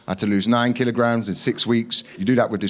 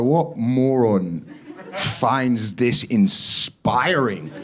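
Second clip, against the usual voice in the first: sneering; 2 semitones higher, much slower than usual. Retold or imitated. Mocking the video.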